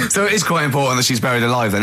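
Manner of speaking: quick words through a laugh; amused, chuckling as he speaks. Real, not acted. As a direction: talk fast while still laughing. Laughing at the story's logic.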